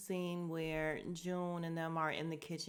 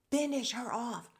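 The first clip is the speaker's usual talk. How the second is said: louder, higher mock command; hammed-up, emphatic demand; insistent urging; 6 semitones higher, 5 dB louder than usual. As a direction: egg them on with full force. Urging on the truck, escalated repeat.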